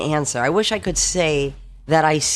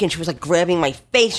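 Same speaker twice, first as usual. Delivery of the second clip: ordinary talk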